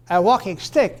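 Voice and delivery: walking then a strong STICK; adjective-plus-noun stress, STICK prominent. Shown as a demonstration. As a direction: land on "stick" as its own word. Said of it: "is a stick that walks".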